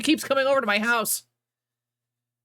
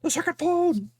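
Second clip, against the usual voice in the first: mock-dramatic exclamation; 10 semitones higher than usual. Echoing her friend's phone announcement, hammed-up excited cry. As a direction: pitch jumps way up, hammed-up announcer echo.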